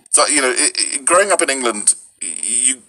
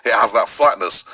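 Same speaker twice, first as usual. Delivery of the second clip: flat northern English with a strong R; Lancashire, American-like R and flatness; Lancashire accent. Shown as a demonstration. Touring northern England's accents, flat Lancashire accent. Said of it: "which has this bird R".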